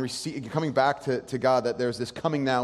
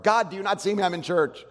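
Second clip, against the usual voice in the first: mock shout to God; 4 semitones higher, 5 dB louder than usual. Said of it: "shout out with your heart".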